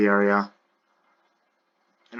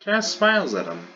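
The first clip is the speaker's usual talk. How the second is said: high, far smiling voice; 7 semitones higher, faster than usual. Shown as a demonstration. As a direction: lift it into a smiling voice. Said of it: "repeated narration line".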